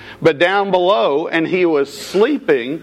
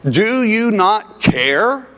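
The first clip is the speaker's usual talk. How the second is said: accusing question; 4 semitones higher, slower than usual. Retold or imitated. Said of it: "Also implying that Jesus was somehow in the wrong".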